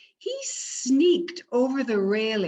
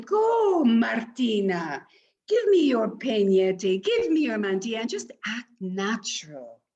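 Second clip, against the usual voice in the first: eager grandmother; 3 dB louder than usual. Acted. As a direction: hurry her out the door. Grandmother sends her off.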